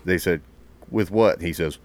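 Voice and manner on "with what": loud, higher mock demand; drill instructor grilling. Retold instructors questioning the recruit.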